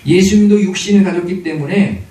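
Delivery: forceful sermon delivery with strong, loud phrase openings; emphatic preaching. Real, not acted. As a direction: press each point home to the congregation. (힘 있게 강조하는 설교조)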